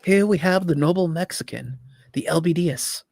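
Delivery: hushed nature documentary narrator; Attenborough voiceover. Pretend. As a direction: narrate like a wildlife film. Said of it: "complete voiceover like David Attenborough".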